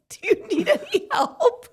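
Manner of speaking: very high, slightly laughing voice; mock helpful offer. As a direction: offer help in an exaggerated high pitch. Models a kinder way to ask.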